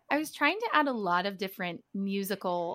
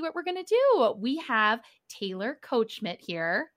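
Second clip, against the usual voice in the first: sing-songy; 2 semitones higher, 3 dB louder than usual. Real, not acted. Host introducing the podcast guest, mildly sing-songy. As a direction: stretch the guest's name with a light lilt. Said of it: "In a beautiful sing-songy voice".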